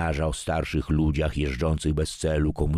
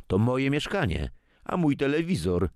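higher, a biting put-down; snide; 10 semitones higher than usual. A narrator's reading. Son-in-law reminds grandfather whose TV it is, biting. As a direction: needle him with every word. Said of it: "zauważył kąśliwie Adam".

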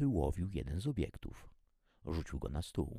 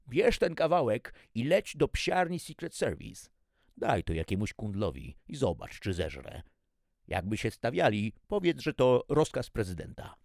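raised, bossy chef voice; shouted orders; 6 semitones higher, 7 dB louder than usual. A narrator's reading. Chef sending the kitchen boy to the kennels, shouted orders. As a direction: bark out orders, pitched up. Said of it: "krzyknął na kuchcika".

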